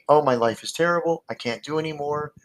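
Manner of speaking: a touch of a whiny complainer; complaining people. Retold or imitated. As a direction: imitate someone moaning about their life. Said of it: "They'll say".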